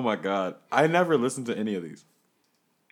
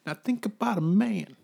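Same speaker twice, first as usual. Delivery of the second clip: bouncer; 7 semitones higher than usual. Acted. Bouncer skit, raised voice.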